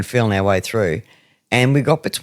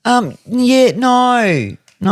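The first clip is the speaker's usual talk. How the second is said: high hesitant mock reply; flustered denial; flustered guests; 10 semitones higher, much slower than usual. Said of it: "And they're like".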